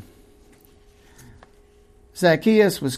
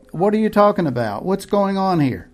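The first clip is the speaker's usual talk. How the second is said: higher, fast, bewildered; alarmed confusion; 6 semitones higher than usual. Acted. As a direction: blurt it out in alarm.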